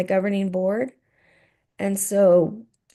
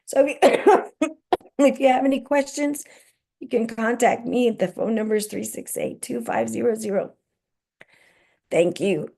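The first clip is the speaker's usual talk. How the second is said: losing voice; 2 semitones higher than usual. Real, not acted. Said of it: "I'm about to lose my voice".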